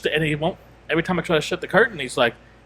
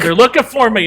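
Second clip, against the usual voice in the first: louder, higher mock alarm; retold alarm; 6 semitones higher, 8 dB louder than usual. Man overhearing cop's call about him, mock alarm. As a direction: imitate sudden alarm, voice jumping up.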